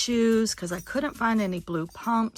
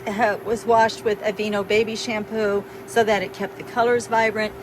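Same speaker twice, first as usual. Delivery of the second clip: raised voice over fan noise; talking over a fan; 4 dB louder than usual. Real, not acted. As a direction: keep speaking up over the noise. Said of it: "I'm talking through a fan".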